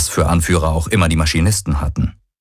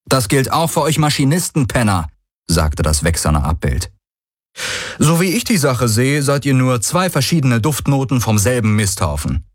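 raised, mocking trash talk; wrestling promo; 6 semitones higher than usual. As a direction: taunt them like a brawler. Hero trash-talks the machinists.

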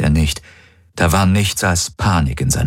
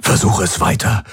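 urging; 3 semitones higher than usual. Acted. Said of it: "drängte Hawks".

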